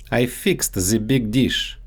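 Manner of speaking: the said as "ze", with a Russian z; Russian-accented "the" becoming ze; the big dish with a Russian z in "the". Shown as a demonstration. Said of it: "so they often get mixed up in English".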